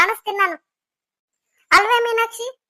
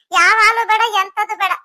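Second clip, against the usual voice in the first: louder, cutting it off sharply; angry outburst; 7 dB louder than usual. Acted. Husband shouting down the family quarrel over milk. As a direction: slam the argument shut.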